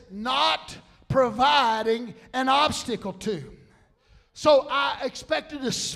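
punchy preacher's delivery; animated preaching. Acted. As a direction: rouse the congregation with the point. Preaches the revelation.

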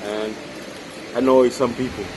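talking while chewing; laughing with food in mouth; mouth full of chocolate. Real, not acted. Seen 0: bites chocolate at start, then talks laughing with chocolate.

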